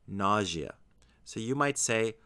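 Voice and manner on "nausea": "nausea" as NAH-zhuh, said slowly; noun pronunciation. Shown as a demonstration. Teacher showing the noun form, slow "nausea" stressed on the first syllable. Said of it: "it's pronounced".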